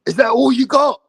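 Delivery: imitating Diaz's taunt. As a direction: sneer it at the opponent. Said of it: "He was telling Jake Paul".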